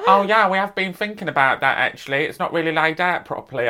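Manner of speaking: hammed-up EastEnders-style London accent. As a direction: do your best London shop assistant. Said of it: "that was my best London accent".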